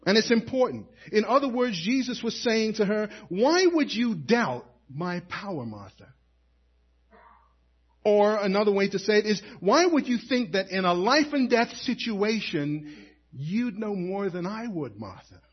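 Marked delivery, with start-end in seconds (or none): 3.3-6.1 gentle. Acted. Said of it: "he said it very gently". 9.6-15.4 gentle. Acted. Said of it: "he said it very gently".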